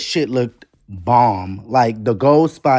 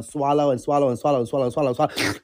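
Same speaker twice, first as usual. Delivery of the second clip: rapid repeats; 3 dB quieter, much faster than usual. Real, not acted. Gushing over look, rapid repeats.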